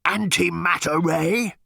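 slow, loud machine guess; tentative machine guess; hazarded guess. Acted. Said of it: "it hazarded".

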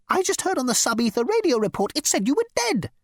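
very high squeal; squealing insect. Acted. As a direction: squeal it in panic.

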